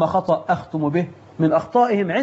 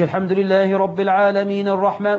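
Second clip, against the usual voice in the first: verses run together without pausing; one-breath recitation. Shown as a demonstration. Imam mocking one-breath recitation, verses run together. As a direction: rush it all in one breath. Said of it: "وياخدها في نفس واحد".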